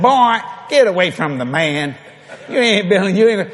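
a touch of stern mother; lightly acted telling-off of a child; mock scolding. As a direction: shoo the boy away, half-acted. Mother scolds her son, retold.

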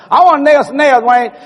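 put-on high, loud kid begging; little Jesse begging his big brother, high and loud; whiny little kid. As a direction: beg like a six-year-old. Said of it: "I said".

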